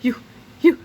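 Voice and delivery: a mother fending off a stranger; panicked yell. A narrator's reading. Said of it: "Missus Needley yelled".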